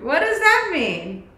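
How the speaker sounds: normal talking voice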